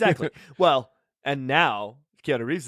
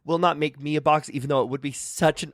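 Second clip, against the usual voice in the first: nervous fan voice; 3 semitones higher than usual. Acted. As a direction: play a timid superfan. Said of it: "I'm a fan of That Was Horrible".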